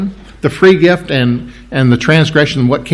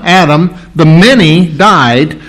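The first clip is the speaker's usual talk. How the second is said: building excitement; 3 semitones higher, 4 dB louder, much slower than usual. Acted. Preacher reading Paul to the church, growing excited. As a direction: let the verse swell up into much more. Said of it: "this is where Paul starts getting excited".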